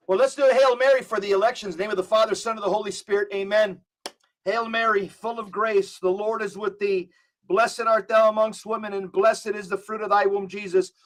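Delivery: steady recited Hail Mary; prayer. Acted. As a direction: lead the listeners through the prayer. Leads a Hail Mary on air.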